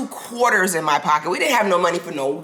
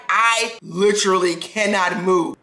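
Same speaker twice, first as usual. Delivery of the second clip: frozen with nerves; slower than usual. Retold or imitated. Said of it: "I couldn't even speak".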